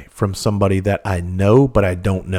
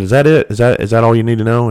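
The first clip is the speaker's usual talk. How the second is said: curt; 3 semitones higher, 6 dB louder than usual. Retold or imitated. Curt end to unwanted call.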